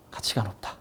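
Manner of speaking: whispered softly to let the point sink in. Shown as a demonstration. Teacher whispering the key phrase to students. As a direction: breathe the words out as a hushed aside. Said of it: "가치가 높다라고 표현할 수가".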